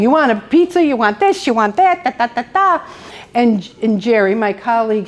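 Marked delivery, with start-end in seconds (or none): 0.0-2.8 put-on higher-pitched, rapid-fire kid chatter; mock boisterous teen chatter; boisterous teenagers. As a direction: imitate a gaggle of excited teenagers. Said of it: "kids are over here laughing and giggling".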